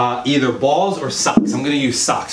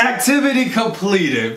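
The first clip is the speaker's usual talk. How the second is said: laughing while repeating the phrase; 3 semitones higher than usual. Retold or imitated. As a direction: echo it with a laugh. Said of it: "till she says".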